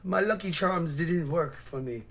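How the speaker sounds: slow, drawn-out mock Irish lilt; hammed-up leprechaun-style Irish accent; mocking accent impression. Mocks the clip speaker's accent.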